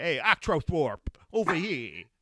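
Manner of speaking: natural New York accent. Imitating own earlier pronunciation of a word: new york accent. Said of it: "I said it like a New Yorker".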